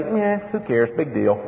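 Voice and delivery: careless, throwaway mock voice; dismissive shrug. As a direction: toss it off like nobody cares. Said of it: "can never say".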